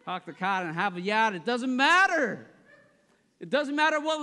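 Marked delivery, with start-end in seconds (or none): 0.1-1.3 put-on Boston accent with dropped r's; lightly hammed Boston vowels. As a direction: do a quick mock Boston accent. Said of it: "even Boston".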